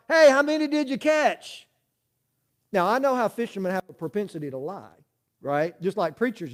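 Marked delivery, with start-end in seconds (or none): 0.1-1.7 a mild call across the water, "Hey" pitched higher; hollering from the dock. Retold or imitated. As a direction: call out to a buddy far off. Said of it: "he hollers out".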